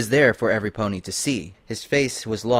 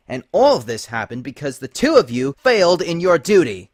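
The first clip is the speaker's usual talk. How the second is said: angry scolding; 4 semitones higher than usual. Acted. Celestia blames Lyra and Noteworthy, angrily raised. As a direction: lay the blame on them coldly. Princess berating failed spies.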